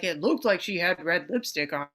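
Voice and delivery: hint at a spooky true-crime storyteller; Keith Morrison. Retold or imitated. Podcast fan imitates the host describing a jailed woman, spooky. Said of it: "in a Keith Morrison voice, he's all spooky".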